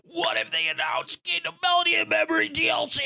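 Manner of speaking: high, eager fan voice; excited fan. Retold or imitated. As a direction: squeal it like a hopeful fan. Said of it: "everybody was like".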